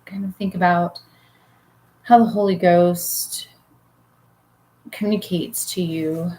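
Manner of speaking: unhurried guiding voice with long pauses; guided meditation. Real, not acted. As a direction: lead listeners gently into relaxation, leaving room to breathe. Leads a guided relaxation.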